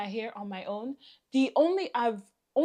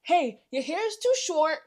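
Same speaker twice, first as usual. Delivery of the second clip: mock scolding hairdresser; what she should have said; 5 semitones higher, 4 dB louder than usual. To the hairdresser, a mildly mocking blunt warning. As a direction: spell it out like a blunt stylist. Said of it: "You should have said".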